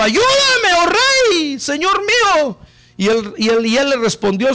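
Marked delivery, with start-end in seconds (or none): 0.0-2.6 mild mock cry for help; pleading cry. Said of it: "una mujer le gritó diciendo".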